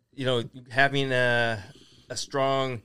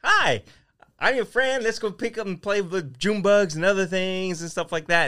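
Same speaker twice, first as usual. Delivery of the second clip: put-on naive kid voice; 8 semitones higher, 5 dB louder than usual. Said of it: "I always thought".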